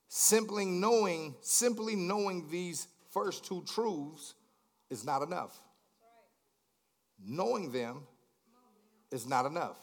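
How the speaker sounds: slow dictation. Shown as a demonstration. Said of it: "I want you to write this one down".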